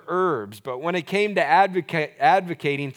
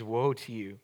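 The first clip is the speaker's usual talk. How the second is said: disappointed woe; 4 semitones lower than usual. Shown as a demonstration. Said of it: "He's disappointed".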